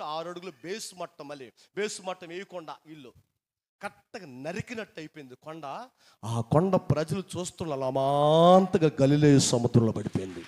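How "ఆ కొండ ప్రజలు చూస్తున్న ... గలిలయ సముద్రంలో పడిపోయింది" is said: 1 dramatic outcry. Acted. Dramatic climax of mountain falling.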